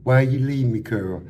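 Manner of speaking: loud hammed-up sobbing plea; a hammed-up imitation of the crying inmate; mock crying wail. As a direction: wail like the heartbroken cellmate. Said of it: "I said, I said".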